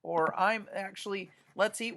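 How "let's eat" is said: a command. Acted. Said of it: "would be a command".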